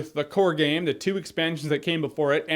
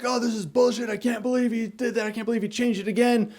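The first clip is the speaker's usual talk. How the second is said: a lightly voiced complaining critic, higher; mocking whiny reviewers; 4 semitones higher, 3 dB quieter than usual. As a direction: whine like a fed-up movie reviewer. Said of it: "they were bitching about it".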